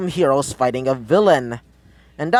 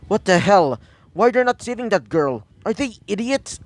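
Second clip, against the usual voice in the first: higher-pitched, mildly outraged inner voice; a touch of exasperated disbelief, pitched up; indignant disbelief; 5 semitones higher than usual. Acted. Hero's outraged thoughts at idle heroes.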